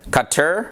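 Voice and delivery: Qatar said as KAH-ter; variant Qatar pronunciation. Shown as a demonstration. Listing common ways to say Qatar, pronounced KAH-ter. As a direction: shorten Qatar's ending to "ter". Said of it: "common ways of pronouncing it are".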